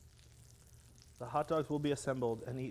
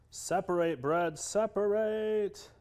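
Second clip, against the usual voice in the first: coaxing; 6 semitones higher, 7 dB louder, slower than usual. Real, not acted. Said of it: "coaxing the bread".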